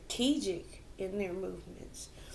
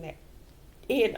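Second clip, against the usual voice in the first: hiccuping mid-sentence; hiccups; 5 dB louder than usual. Real, not acted. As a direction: speak through hiccups. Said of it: "I'm hiccuping".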